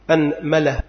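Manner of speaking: أنملة with fatha on the hamza and fatha on the mim, anmala; vowel demo. Shown as a demonstration. Teacher listing the variant for students, careful anmala. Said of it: "أولا فتح الهمزة".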